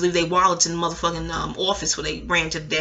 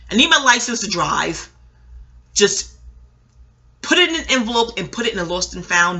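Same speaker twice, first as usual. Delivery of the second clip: louder, indignant rant about a stolen wallet; pissed-off teacher; 4 dB louder than usual. Retold or imitated. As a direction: rant like a robbed teacher demanding his ID back. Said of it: "they would be pissed".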